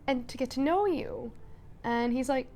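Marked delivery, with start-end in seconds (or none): 0.1-1.3 soft, gently hesitant gratitude; quietly touched, thanking a new friend; softly voiced heartfelt thanks; sincere thanks. Sweet moment voicing Odette's thanks.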